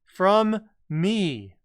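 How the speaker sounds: slow, loud menacing machine voice; slow theatrical villain menace. Acted. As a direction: boom it out like a villain oracle. Voicing the question machine.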